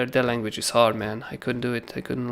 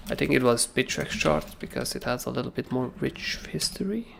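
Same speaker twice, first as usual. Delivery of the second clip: whispered aside; 5 dB quieter than usual. Real, not acted. Aside while checking chart.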